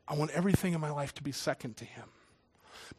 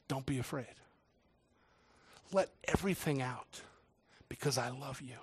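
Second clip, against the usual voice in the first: tender reassurance; 3 semitones lower, 7 dB quieter than usual. Retold or imitated. God's comfort to the drummer.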